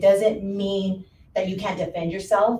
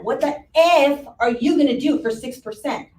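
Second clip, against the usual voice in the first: mock indignant wife; 5 semitones higher than usual. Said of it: "she told me like that".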